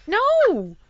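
high, exasperated comic no; mock outraged protest to mom; emphatic refusal. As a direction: refuse loudly and flatly, half laughing. Acted refusal to mother.

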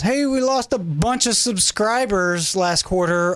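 a hint of a spokesperson reading out results; company announcement. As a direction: play a company breaking bad news, lightly. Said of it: "a company comes out and says".

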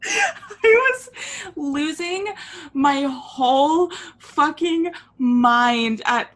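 high, loud, words squeezed out through laughing; slow, breaking up word by word; really cracking up while talking; helpless laughter. Real, not acted. Cracking up over the clip.

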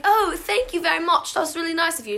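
lightly imitated British accent; British accent, imitating a sister; put-on British accent. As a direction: say it with a mock British lilt. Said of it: "like, a British accent".

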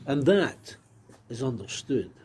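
measured, careful BBC Scotland accent; slow down into a formal BBC Scotland accent; deliberately articulated BBC Scotland voice. Shown as a demonstration. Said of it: "that B B C Scotland accent".

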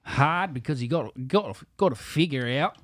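put-on halting try at an Australian accent; attempted Australian accent. Learner copies the host's demo, unsure Australian accent. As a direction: copy the Australian accent, groping for vowels. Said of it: "I cannot do an Australian accent".

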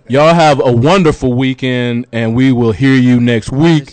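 slow, resonant radio farewell with plenty of bass; big, booming sign-off. Real, not acted. Co-host signing off to listeners, big booming voice. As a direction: draw out each phrase in a big bassy voice. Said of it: "Your voice is just loud".

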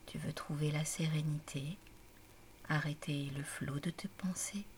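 calm, measured relaxation voice with long pauses; guided meditation. A narrator's reading. Mamie Tilda guides Aimée to relax and breathe, calm guided meditation. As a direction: guide the listener gently into stillness, phrase by phrase.

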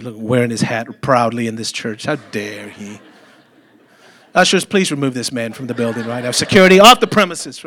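hammed-up indignation, building to a loud call for security; mock outrage. Preacher jokingly ordering ushers to remove a fan, mock-loud. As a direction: pretend to throw the fan out, half-laughing.

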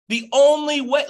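loud, high, urgent call; passionate yelling. Real, not acted. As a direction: shout it out with passion. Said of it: "I know I'm yelling".

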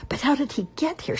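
high rising indignant voice, starting to shout; beginning to shout. A narrator's reading. Cob starting to shout at his wife about the boy. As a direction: let the anger break into a shout. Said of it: "but was beginning to shout".

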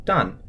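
Dan falling sharply; Dan in fourth tone. Shown as a demonstration. Host teaching the tone: Dan falling. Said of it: "D A N in the fourth tone".

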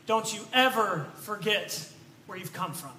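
quiet, leaning on "ever"; stress on ever. Retold or imitated. Older friend warning the young preacher, quiet stress on ever. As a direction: press "ever" softly and firmly. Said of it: "And he says".

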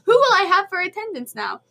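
a hint of a doting teacher sighing over roll call; mock professor lament. Professor wonders who will take attendance, mild mock lament. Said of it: "I'm gonna give him a voice that's probably not accurate".

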